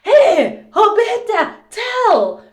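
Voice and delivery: high, loud protest at a laughing friend; hey, back me up here; to friend Roberta, a loud mock protest; indignant call. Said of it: "And I'm like".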